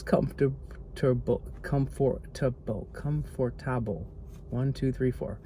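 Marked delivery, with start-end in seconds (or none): 1.6-2.9 "comfortable" slowly, with a full FOR in the middle; overpronounced syllables. Shown as a demonstration. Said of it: "put the emphasis on the wrong syllable". 2.9-4.1 "comfortable" slowly as cum-for-TAB-ul; wrong-syllable stress. Shown as a demonstration. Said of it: "put the emphasis on the wrong syllable".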